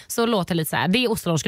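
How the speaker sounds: normal talking voice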